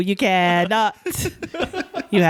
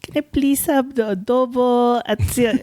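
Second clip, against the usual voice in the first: put-on Filipino accent; 5 semitones higher than usual. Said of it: "But if I say".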